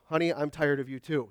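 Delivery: husband's tired comeback; a grumpy dry reply; husband's mishearing, flat. Shown as a demonstration. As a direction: mumble it back like he didn't really hear. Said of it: "when you're not listening".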